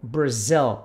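"Brazil" as "bozɛl", low, stress at the end; English pronunciation. Shown as a demonstration. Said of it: "lembra que a pronúncia é Brazil". ("Brazil" com pronúncia inglesa)

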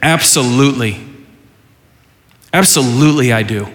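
defiant, then sinking into a slow, dying plea; a touch of sulky Jonah, fading slow at the end. Acted. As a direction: talk back, then give up. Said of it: "has the audacity to speak back".

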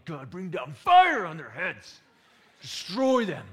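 slow, loud hammed-up call for fire; mock vengeful prayer. Preacher parodies a vengeful prayer against school mockers, hammed-up loud. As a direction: ham up a prayer for destruction.

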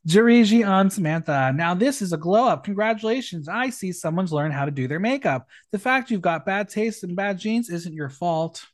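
lively, projected read-out of a roast; performed drag-roast reading. Acted. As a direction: announce the name, then deliver the jibe. Reads out contestants' roast jokes.

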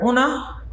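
"una" said oo-nah, meaning you; Gullah "una". Shown as a demonstration. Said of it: "use the word".

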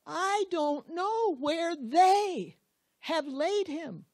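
high, slow, pleading voice; desperate plea. Acted. Mary begs the gardener to tell her, high and pleading. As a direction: beg him to tell her where he is.

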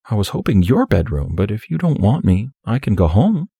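lightly voiced, coy young woman.

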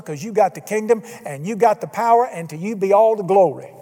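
rising, building prayer ending in praise; a climbing closing doxology. Shown as a demonstration. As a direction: pray it with growing confidence. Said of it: "go on all you want to".

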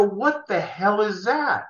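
slow, drawn-out astonished question; gaping at an eleven-foot pink pig; stunned surprise. Retold or imitated. Man finds the Porky's pig, slow stunned surprise. Sees the movie prop pig.

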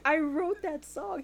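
loud, high, slow indignant yell; mock angry Laszlo. Friend retelling a vampire's outrage in a loud angry voice. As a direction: bellow it like a wounded songwriter. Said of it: "He was so pissed".

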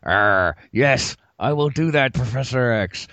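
put-on lockjaw accent, growled through teeth; gritted teeth. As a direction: grit your teeth and growl it. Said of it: "only talk through gritted teeth".

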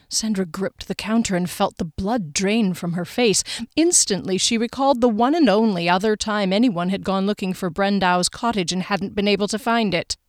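measured, even audiobook reading; story narration. A narrator's reading. Narrator sets the scene in Sandra's kitchen, measured storytelling. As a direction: read the scene evenly and carefully. Reads the novel aloud.

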